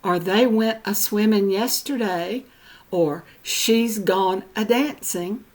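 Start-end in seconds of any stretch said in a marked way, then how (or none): 0.2-2.4 extra uh leading into "a-swimming"; mountain a-prefix. Retold or imitated. Quoting older Southern mountain people, a-prefixed "a-swimming". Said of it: "hear the little extra "uh". 3.4-5.4 extra uh leading into "a-dancing"; mountain a-prefix. Retold or imitated. Quoting older Southern mountain people, a-prefixed "a-dancing". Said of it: "hear the little extra "uh".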